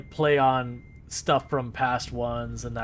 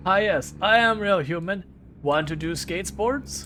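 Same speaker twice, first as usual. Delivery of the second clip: odd cartoon character voice; 5 semitones higher, 4 dB louder than usual. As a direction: play a strange creature trying to pass as human. Quoting a weird ASDF character.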